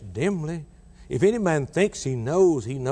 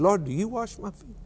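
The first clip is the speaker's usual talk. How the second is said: astonished question; 7 semitones higher than usual. Acted.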